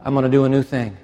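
rising, insistent voice of God; God speaking to him. Retold or imitated. God telling him he will do a new thing. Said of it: "God came one day to me and he whispered".

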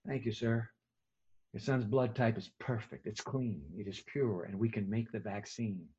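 put-on old doctor to the father, low and soft; gentle old doctor. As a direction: break good news softly.

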